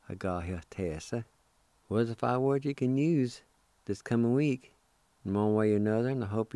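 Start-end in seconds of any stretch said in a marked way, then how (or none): 0.1-1.2 slow demo. Shown as a demonstration. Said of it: "I'll pronounce these words one more time".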